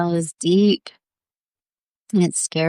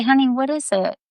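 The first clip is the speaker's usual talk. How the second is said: higher, gentle motherly coaxing; concerned mothering; 7 semitones higher, faster than usual. Acted. Mama asking Jo what else is wrong, concerned mothering. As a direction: ask a child tenderly, pitched up. Mother figure questioning crying child.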